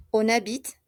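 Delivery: habite ending on the t sound; silent final e. Shown as a demonstration. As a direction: leave the last e of habite unsaid.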